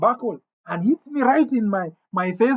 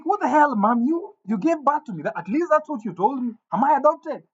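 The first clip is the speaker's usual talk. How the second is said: higher-pitched disbelief at a parent; acted-out stunned son, voice raised in pitch; incredulous retort; 4 semitones higher than usual. Son questions the mother who scolds him, incredulous.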